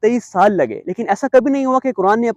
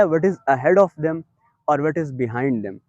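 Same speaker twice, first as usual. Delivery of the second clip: slow translation; 5 semitones lower, 5 dB quieter, much slower than usual. Acted.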